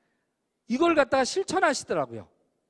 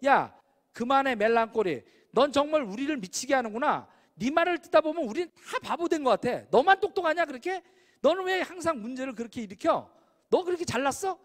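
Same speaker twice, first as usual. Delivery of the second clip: hammed-up scolding of a nitpicker; retold angry yelling; 2 semitones higher than usual. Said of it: "D타입이 소리를 쳐요". (흉내 낸 화난 고함, 끝으로 갈수록 높아지게)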